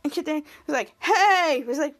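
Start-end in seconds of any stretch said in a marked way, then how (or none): 1.0-1.6 drawn-out, lifted call; excited exclamation. Retold or imitated. Kid Danger arriving up the tube, excited exclamation. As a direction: call it out in celebration.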